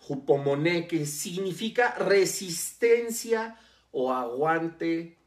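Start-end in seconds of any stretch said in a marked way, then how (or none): 0.1-0.9 hupomoné again, the final é stressed and rising; Greek word repeated. Shown as a demonstration. Preacher repeating the Greek word for his listeners, final é stressed. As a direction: repeat hupomoné with the accent on the last é, lifting at the end. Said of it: "con acento en la última E".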